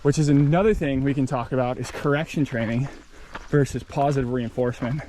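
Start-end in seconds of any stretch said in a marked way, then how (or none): 1.8-5.0 breathless from hiking uphill; panting between words; out of breath. Real, not acted. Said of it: "I'm out of breath".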